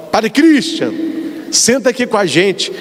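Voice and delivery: a lightly voiced friendly call to join the table; friendly invitation. A friend at the party invites the priest to sit, friendly call. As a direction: call him over warmly by name. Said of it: "fala assim que".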